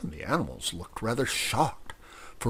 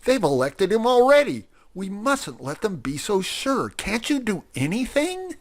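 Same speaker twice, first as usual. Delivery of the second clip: higher, louder alarmed shout; 11 semitones higher, 5 dB louder than usual. Acted. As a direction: shout over the cheering crowd. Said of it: "he shouted".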